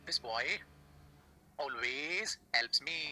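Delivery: slow, spaced-out teaching delivery; slow model sentence. Shown as a demonstration. Teacher giving students the English translation, slowly word by word. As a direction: draw out each word for learners.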